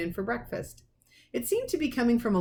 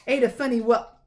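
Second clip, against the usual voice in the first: gruff reading; 4 semitones higher, 5 dB louder than usual. A narrator's reading. Vernon reading postcard.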